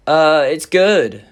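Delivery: slow, hesitant awkward reply. Retold or imitated. Answering the mum about dating her daughter, awkward. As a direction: stretch it out, unsure what to say. Awkwardly covering for his friends.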